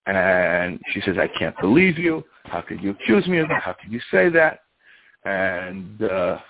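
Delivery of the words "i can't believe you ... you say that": higher-pitched retold indignation; mock outrage, pitched up; enraged. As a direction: act out an affronted wife's protest. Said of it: "she is enraged".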